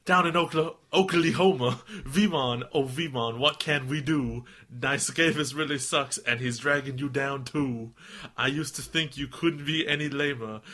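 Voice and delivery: lightly put-on Texan accent; Southern accent. Podcaster reads fan's poem, light Southern accent. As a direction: read verse with a hint of Southern twang. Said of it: "How does Southern go?".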